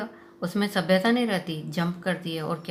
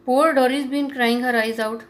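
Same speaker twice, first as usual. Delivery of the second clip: slow, louder, higher bitter complaint; resentful accusation; bitter reproach; 5 semitones higher, 6 dB louder, much slower than usual. Retold or imitated.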